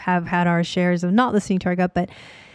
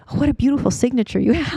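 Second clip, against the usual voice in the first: fast, gushing mock praise, a little higher; over-the-top flattery; 5 semitones higher, faster than usual. Realtor mocking her clients' sudden flattery, gushing fast. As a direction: lay the flattery on thick and fast. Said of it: "Over the top".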